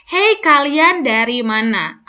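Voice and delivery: slow, every word crisp; slow and clear. Shown as a demonstration. Teacher slows the line for clear articulation, deliberate. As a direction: spell out each word slowly. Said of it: "Apabila lambat".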